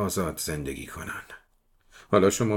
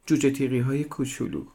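put-on higher, childlike voice; little girl voice; 6 semitones higher than usual. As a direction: speak like a small serious girl.

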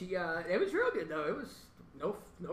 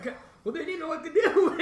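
high, loud words through laughter; real laughing; 10 semitones higher, 9 dB louder than usual. Real, not acted. Friend recounting the baffled cops, laughing. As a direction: giggle your way through the explanation.

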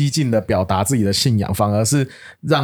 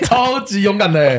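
high, drawn-out exclamation; amused exclamation; 8 semitones higher than usual. Real, not acted. Exclaiming over the cousin's boldness, amused and drawn out. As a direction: stretch it out high in mock awe.

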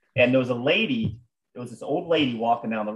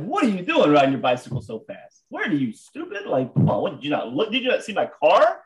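indignant retold scolding; mock-angry telling-off, rising in disbelief; retold berating; 4 semitones higher, 3 dB louder than usual. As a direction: berate him with incredulous questions. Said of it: "I just start berating this guy".

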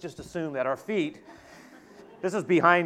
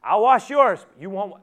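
high, slow, full-volume shouting; vehement, drawn-out protest at the top of the voice; emphatic refusal; 12 semitones higher, 14 dB louder than usual. Acted. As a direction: shout every word so nobody can miss it. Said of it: "I can't say it any more clear".

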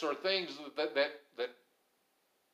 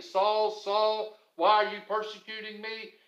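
raised, higher voice calling a name; 4 semitones higher, 3 dB louder than usual. Acted. Voice from the light to Saul, calling out. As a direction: call down to the man on his knees.

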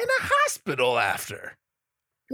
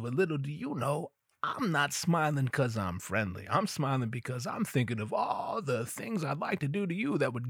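creepy inner voice; 4 dB quieter than usual. Retold or imitated. Dave's secret thoughts about the woman, soft leering tone. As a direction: menace hiding behind a smile.

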